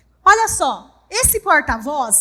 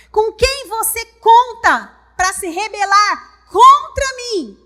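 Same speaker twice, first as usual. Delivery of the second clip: taunting enemy; 4 semitones higher, 8 dB louder, slower than usual. Acted. Preacher voicing the enemy's taunt.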